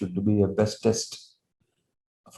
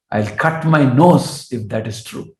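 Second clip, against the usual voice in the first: scoffing Brahmin louder; 3 semitones higher, 4 dB louder, slower than usual. Retold or imitated. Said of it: "And this Brahmana will say".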